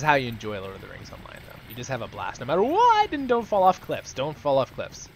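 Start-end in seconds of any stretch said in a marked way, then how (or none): 2.4-5.1 excited. Real, not acted. Enthusiastic advice.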